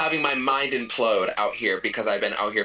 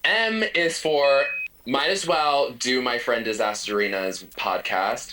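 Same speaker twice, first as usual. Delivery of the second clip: poem recital. Pretend. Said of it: "This is an acrostic that I wrote".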